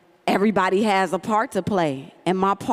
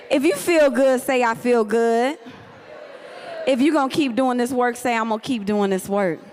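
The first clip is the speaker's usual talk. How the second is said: call and response; 4 semitones higher than usual. Real, not acted.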